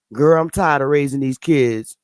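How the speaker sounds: put-on low, weary girlfriend gossip voice, lightly done; a hint of a tired mama monkey complaining; voicing a mom monkey again. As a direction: sigh it out like a tired mother chimp. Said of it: "making her lips like".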